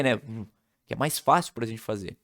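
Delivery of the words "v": "v" as a buzzing voiced f; v sound. Shown as a demonstration. Teacher demos the v sound. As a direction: buzz the lip against teeth. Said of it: "ou o V".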